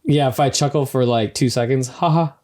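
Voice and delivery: dry, mocking delivery; sarcastic. Real, not acted. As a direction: say it with a wry sneer. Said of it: "I'm saying that very sarcastically".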